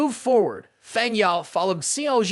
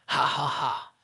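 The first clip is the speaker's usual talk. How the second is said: villain laugh; 5 semitones lower, 3 dB quieter than usual. A narrator's reading. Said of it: "sounded like a villain stepping out of a comic book".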